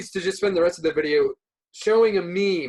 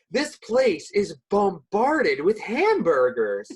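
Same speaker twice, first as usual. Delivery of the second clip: mock odd phrasing; much slower than usual. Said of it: "such an odd way to phrase it".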